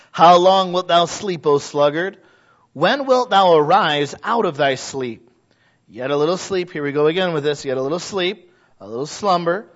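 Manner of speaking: solemn preacher's Bible reading; scripture reading. Acted. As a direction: read the verse like it carries weight. Reads Proverbs scripture aloud.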